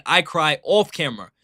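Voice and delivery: "off" leaned on before camera; stress on "off". Retold or imitated. Streamer quoting the player's contrast, stress on "off". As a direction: lightly hit the word "off". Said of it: "showed a night and day difference".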